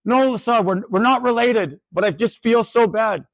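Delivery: drawn-out high student plea; imitated student, high and slow. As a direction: stretch it out like a guilty student. Student insists, not related.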